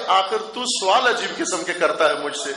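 lightly voiced calm reply; calm, soft tone. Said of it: "آرام کے دھیمے لہجے میں کہا". (پرسکون، ذرا دھیمے لہجے میں)

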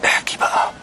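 frustrated demand. Acted. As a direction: snap at her to speak up. Demanding the voice speak.

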